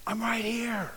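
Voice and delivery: gentle close whisper; whispered Jesus. Pretend. Jesus standing behind the believer, gently whispered. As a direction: lean in and breathe reassurance.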